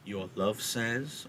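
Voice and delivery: slow, soft, drawn-out lead-in; teasing suspense. Acted. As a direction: dangle the news in front of her. Nurse teasingly begins long-awaited answer.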